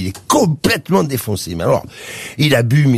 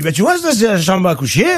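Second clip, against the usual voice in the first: much higher, slurring, overexcited wasted man; stoned drunk guy; 6 semitones higher than usual. Acted. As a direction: invite your friend home, totally wasted. Stoned guy shows bedroom.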